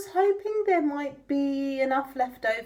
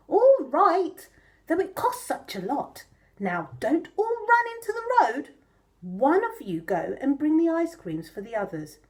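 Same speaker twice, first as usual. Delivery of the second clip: mother pig voice; 3 semitones higher than usual. Acted.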